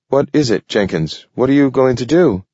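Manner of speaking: sudden fearful urgency; edge of fear. Acted. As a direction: ask it with rising alarm. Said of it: "sudden edge of fear".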